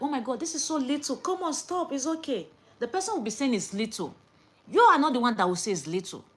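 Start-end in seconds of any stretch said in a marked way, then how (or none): 0.0-2.5 modest helper. Retold or imitated. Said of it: "will be like".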